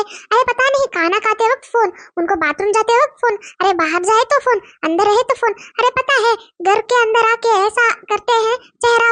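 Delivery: nosy village wife fretting about her husband's phone, in dialect; gossiping village wife. Acted. Village wives trading suspicions about their husbands, gossipy and worried. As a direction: gossip like a suspicious small-town housewife.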